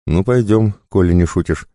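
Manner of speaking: a touch of laughter in the voice; amused challenge, understated; mild chuckle. A narrator's reading. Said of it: "хохотнул Косой".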